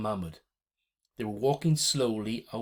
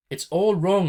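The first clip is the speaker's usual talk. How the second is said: much higher, louder desperate outburst; desperate cry; 10 semitones higher, 10 dB louder than usual. A narrator's reading. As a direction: burst out in desperation. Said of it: "I said desperately".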